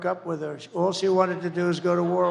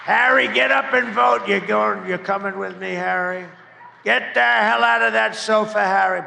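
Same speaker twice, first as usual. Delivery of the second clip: calling out to Harry; 2 semitones higher, 5 dB louder than usual. Acted. Candidate rousting Harry off the sofa to vote, loud call. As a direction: yell him off the sofa.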